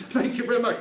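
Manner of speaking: put-on a quick slip into a Welsh accent, laughing; a passing, laughing touch of Welsh. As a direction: thank them in a light, jokey Welsh lilt. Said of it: "Don't know why I went Welsh there".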